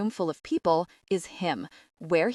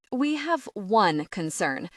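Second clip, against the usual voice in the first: put-on vague European accent; slower than usual. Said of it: "in a European accent I can't quite place".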